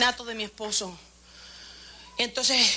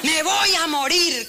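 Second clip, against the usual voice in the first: mock whine; 8 semitones higher, 4 dB louder, slower than usual. Repeats Elijah's line, laughing.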